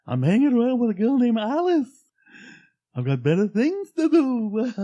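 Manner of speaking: loud, high manic character voice; hammed-up wacky storybook rant; Mad Hatter. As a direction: rave it high and crazed. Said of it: "That's like the freaking Mad Hatter".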